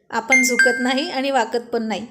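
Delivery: mildly defiant declaration; firm, lightly acted bravado; defiant boast. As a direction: insist with pride that you never give in. Acted boast, mocked right after.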